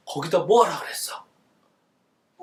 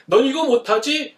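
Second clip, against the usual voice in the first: mock taunt; 5 semitones higher, 3 dB louder than usual. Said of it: "하고 남들을 막 비웃고".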